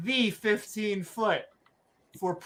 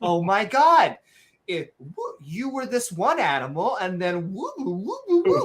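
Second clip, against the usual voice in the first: mocking Pokemon evolution. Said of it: "This shit isn't like Pokemon".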